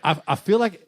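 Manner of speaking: lightly imitated Tennessee accent; a hint of an older Southern man. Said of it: "with a deep Southern accent".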